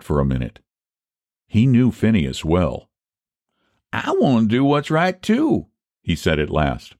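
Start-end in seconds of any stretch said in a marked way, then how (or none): 3.9-5.7 high-pitched country counter-offer; pointed echo. Acted. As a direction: echo him, leaning up high on "too". Rival echoes the offer after thought.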